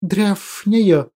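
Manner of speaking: hissing creature voice. Acted. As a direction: drag it out in a hiss. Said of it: "Перевёл я его шипение".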